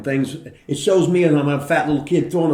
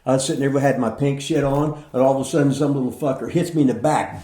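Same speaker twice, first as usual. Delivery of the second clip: ordinary talk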